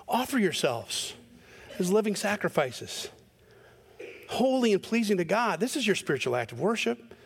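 gentle, open, wondering read; eyebrows-up reading. Shown as a demonstration. Preacher rereads the verse as grace, light and hopeful. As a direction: read it as good news, eyebrows up. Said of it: "Let me read it with my eyebrows up".

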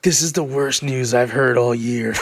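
low, deflated mock gloom; retold dismay. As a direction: imitate a crestfallen friend. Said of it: "Mike's face dropped".

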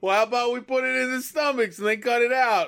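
lightly voiced Italian mobster accent. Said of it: "doing an Italian voice".

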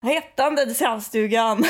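put-on giggling through it, tipsy girl; giggly. Shown as a demonstration. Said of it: "så hur lät du?".

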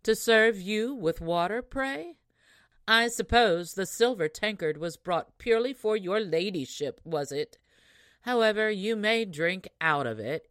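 proud, saucy. Acted. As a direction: talk down to the lady with mock courtesy. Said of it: "said the proud, saucy one".

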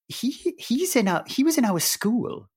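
high, eager exclamation; excited insistence. Retold or imitated. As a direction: blurt it out in excited recognition. Insisting to friend he knows him.

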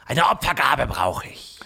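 hissed whisper of a serpent; whispering snake. Acted. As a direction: breathe it like a greedy snake. Snake demands an offering.

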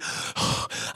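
mimed panicky breath; acted hyperventilation; hyperventilating gasp. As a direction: let out a voiceless, anxious breath. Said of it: "I'm hyperventilating at this point".

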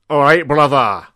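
deliberate, theatrical segment-host voice; Desmond Motorhome. Acted. Desmond opening his Random Thoughts segment, theatrical and deliberate. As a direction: present it slowly with a loud catchphrase.

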